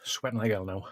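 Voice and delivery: breathless whisper through the burn. Real, not acted. Streamer to viewers while sweating from pepper, real whisper. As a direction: whisper it, overwhelmed by the heat.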